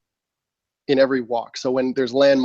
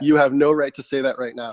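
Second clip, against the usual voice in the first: stern self-rebuke. Retold or imitated. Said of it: "that was pretty serious, man".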